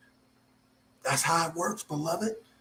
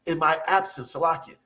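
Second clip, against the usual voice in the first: excited; 5 semitones higher, slower than usual. Real, not acted. Preacher stirring up his congregation, excited and high. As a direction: let the excitement lift the voice. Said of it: "I'm a little excited".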